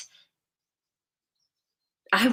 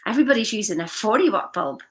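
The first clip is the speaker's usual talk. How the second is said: salesman hype; 2 semitones higher, 4 dB louder than usual. Retold or imitated. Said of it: "and he goes".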